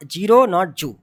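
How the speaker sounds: zero, जू said as "jeero, joo"; wrong J sound. Shown as a demonstration. Teacher showing what not to say, J for Z. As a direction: put a j in place of z in zero and जू.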